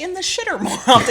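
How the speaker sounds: giggling through the phrase; amused chuckle on in the shitter; laughing. Real, not acted. Laughs while saying crude phrase.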